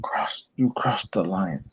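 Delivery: slow, low growled threat; a hint of pro wrestler menace; wrestling promo. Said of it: "if you say that, you gotta say it".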